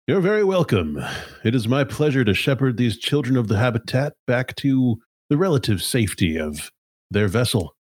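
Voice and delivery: high, formal voice over a speaker; AI over loudspeaker. Acted. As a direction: announce it like a calm AI over the PA. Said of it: "Terry's voice comes over the loudspeaker".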